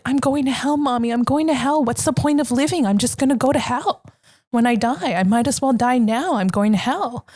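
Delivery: understated mock wail, words tumbling out; retold crying child. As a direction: imitate a despairing little kid, lightly. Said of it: "I just started crying and crying and crying".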